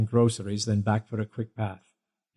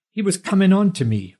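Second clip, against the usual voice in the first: high, louder protesting yell; 9 semitones higher, 4 dB louder than usual. A narrator's reading. Rob protesting to John, high loud yell. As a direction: shout the accusation up high. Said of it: "Rob yelled".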